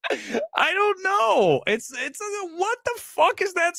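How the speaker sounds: crying with laughter, voice squeaking high; helpless laughter. Real, not acted. Streamer cracking up at a fourteen-out-of-twenty score, helpless laughter. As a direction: laugh so hard the words barely come out.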